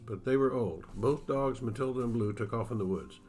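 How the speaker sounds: steady storyteller reading a Western aloud; story narration. Acted. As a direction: read it like an author sharing his book on the radio. Author reads his novel aloud.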